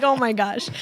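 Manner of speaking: said through a laugh; giggling at herself; laughing oh my gosh. Retold or imitated. Crying again at Cane's, laughing it off. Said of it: "I was like".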